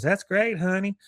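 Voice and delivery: high, dutiful wife voice; wife's reply. Retold or imitated. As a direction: pitch it up, politely unimpressed. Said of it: "She goes".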